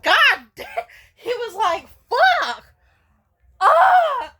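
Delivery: high, loud anguished exclamations; emotional outburst. Retold or imitated. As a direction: cry out in hammed-up distress. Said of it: "he was getting emotional".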